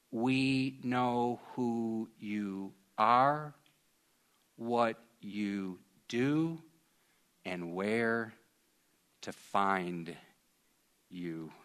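very slow, measured and menacing; quoted Taliban threat. Retold or imitated. Pastor reads the Taliban letter aloud, slow and ominous. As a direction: spell out each threat slowly and quietly. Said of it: "and I quote".

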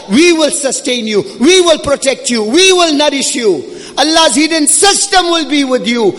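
impassioned sermon delivery; forceful preaching. Real, not acted. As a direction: preach it urgently, driving each phrase home.

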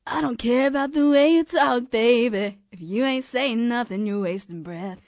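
lightly voiced pop star impression; a famous pop singer. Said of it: "can I be a pop star?".

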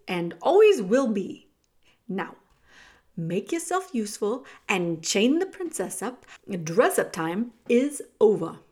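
loud, weighted sneering rat; commanding villain rat, full of contempt; scornful rat. Acted. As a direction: cut her down, leaning hard on the insults.

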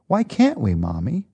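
put-on a hurt little kid pleading; child's question. Tearful child asks mommy why they must leave, high then sinking.

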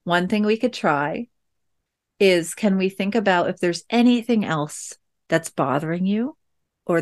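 put-on quiet, careful mom voice for a sensitive kid; gentle wondering. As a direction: lightly offer the idea without demanding. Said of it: "So I said something like".

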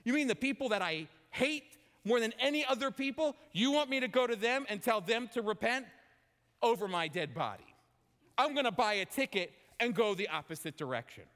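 high, incredulous protest; indignant Jonah. Acted. Jonah protesting God's command, indignant and incredulous. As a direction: refuse the order in disbelief. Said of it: "And Jonah goes".

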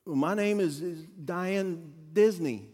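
put-on slow, halting, mildly scared little girl; Diane. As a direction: imitate a nervous child giving her name. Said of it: "she's getting scared at this point".

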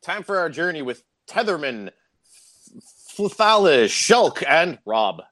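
mock epic hero. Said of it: "you can't be going into a fantasy world being like".

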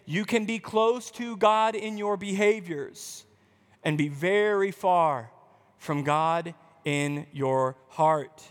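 weighty repeat of the key line; slow emphatic repeat. Shown as a demonstration. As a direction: lean on far and heart, let it sink. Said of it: "I'm gonna say that again".

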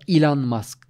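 Elon said "İ-lan"; long i variant. Shown as a demonstration. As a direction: say Elon with an i first and an a last. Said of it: "telaffuzlara çok takılmayalım".

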